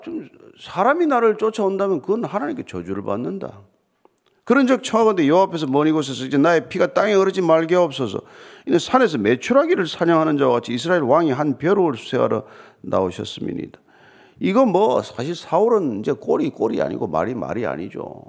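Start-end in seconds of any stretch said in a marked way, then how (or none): 4.4-13.8 steady, projected Bible recitation; scripture reading. Acted. Pastor reading David's plea to the congregation, formal scripture reading. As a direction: read the verse out for the congregation.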